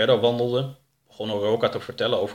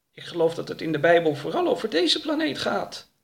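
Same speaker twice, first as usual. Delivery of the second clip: Oroka; 8 semitones higher than usual. Acted.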